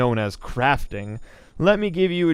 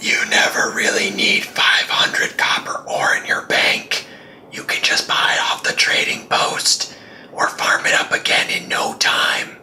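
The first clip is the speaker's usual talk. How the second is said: hushed, whispered voice. An aside while explaining crafting, whispering.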